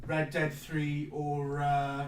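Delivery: muffled behind a hand; hand over mouth. Real, not acted. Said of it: "I'm gonna put my hand over my mouth".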